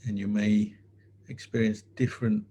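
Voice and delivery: calm, unhurried meditation teacher with long pauses; guided meditation. Real, not acted. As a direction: guide the sitters gently, leaving space between phrases.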